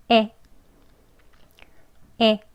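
에 twice, jaw dropped to 애 shape; vowel drill. Shown as a demonstration. Teacher drills 에 twice for learners, careful demo. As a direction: model 에 twice, slow and clear. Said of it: "이 하는 소리만 두 번 해보겠습니다".

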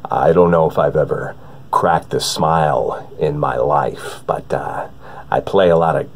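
grave, humorless and deliberate; Willem Dafoe impression. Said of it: "A newer one that I've been working on is Willem Dafoe".

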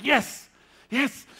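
high, loud eager yes yes. Retold or imitated. Student hungry for the answer, excited high yes. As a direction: blurt yes like hanging on every word. Eager reply while listening.

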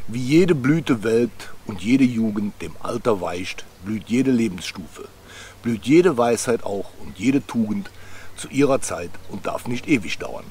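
slow, measured verse reading; poem recitation. Acted. Man reciting his favourite Hermann Hesse poem, slow recitation. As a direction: recite it slowly, line by line.

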